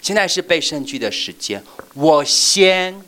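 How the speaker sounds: put-on high, loud eager kid shouting; child calling out to go first. Shown as a demonstration. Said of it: "就是说".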